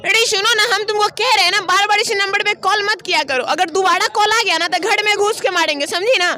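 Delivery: put-on scolding girl voice, threatening; man doing a woman's voice. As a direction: warn her off in a girl's voice. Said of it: "लड़की की आवाज़ बोल करके". (लड़की की आवाज़ में धमकाना)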